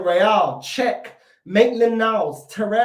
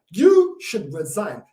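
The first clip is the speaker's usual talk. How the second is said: YOU drawn out long and hard; slow, emphatic demand, leaning on "You"; stress on YOU; 2 semitones lower, 4 dB louder, much slower than usual. Real, not acted. Fan telling the manager to resign, "You" stressed hard.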